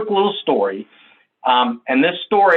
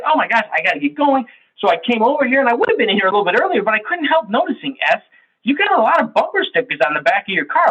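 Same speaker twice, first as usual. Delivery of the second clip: pitched up, rapid rambling excuses; the I teammate arriving late, rushing through a chatty story; chatty latecomer; 4 semitones higher than usual. Acted. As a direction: babble on, charming and distracted.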